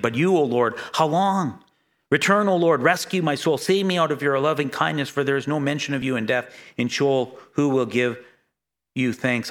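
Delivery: pleading psalm reading, building then sinking; a preacher voicing David's anguish; solemn scripture reading. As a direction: read the psalm as a heartfelt lament. Reads a psalm aloud.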